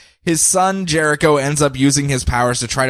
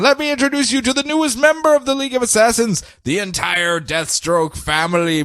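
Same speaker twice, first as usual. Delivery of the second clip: Ra's al Ghul; 9 semitones higher than usual. Retold or imitated. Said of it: "Ra's al Ghul is like".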